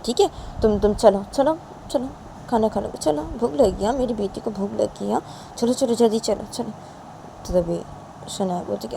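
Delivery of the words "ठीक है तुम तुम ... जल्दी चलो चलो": lightly acted mother hurrying her child; higher-pitched motherly urging; mother coaxing. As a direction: coax her along, a little higher.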